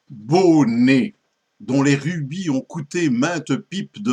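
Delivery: theatrical poetry reading, emphatic attacks, falling cadences; poem recitation. Acted. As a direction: declaim the verse with strong openings and measured pauses.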